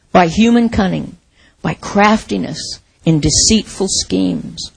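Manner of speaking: measured reading aloud in phrases; scripture reading. Real, not acted. Preacher reading Ephesians to the church, measured scripture reading. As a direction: read the passage out to a congregation, phrase by phrase.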